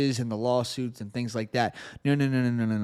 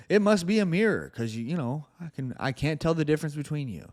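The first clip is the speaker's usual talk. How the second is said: very sarcastic; faster than usual. Real, not acted. Host pretends he can't tell listeners from terrorists, sarcastic. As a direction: feign amazement, sarcastically. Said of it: "I'm being very sarcastic".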